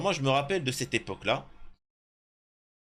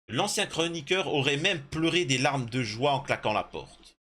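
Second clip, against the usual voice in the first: article lu à voix haute; 2 semitones higher than usual. Real, not acted. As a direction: lecture posée façon voix off de reportage. Reads an article aloud. (lecture de reportage)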